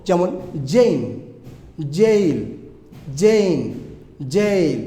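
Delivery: "জেইন" and "জেইল" with a firm J onset. Shown as a demonstration. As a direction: hit the J of "জেইন", "জেইল" hard. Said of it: "শক্ত করে উচ্চারণ করতে হবে এটাও". ("জেইন", "জেইল" শক্ত করে)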